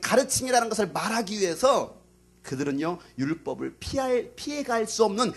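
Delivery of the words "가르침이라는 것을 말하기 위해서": raised, emphatic sermon delivery; forceful preaching. Real, not acted. Preacher explaining to the congregation why they opposed Jesus, forceful. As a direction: press the point hard on key words.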